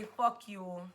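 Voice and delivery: words said with tongue stuck out; tongue sticking out. Real, not acted. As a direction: say it tongue out, blurry. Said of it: "I dare you to stick your tongue out and say".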